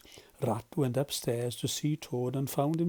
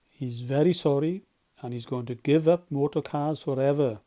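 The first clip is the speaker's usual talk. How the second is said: announcing; 5 dB louder than usual. Acted. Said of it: "announced Mister Badger".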